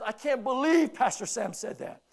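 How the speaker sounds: mock outraged churchgoer; angry quote. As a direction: play the upset member, indignant. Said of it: "he was angry".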